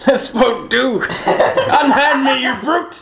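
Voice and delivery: slow, laughing mock outrage; hammy stage actor. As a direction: overplay the offended aristocrat. Hammy noble protest.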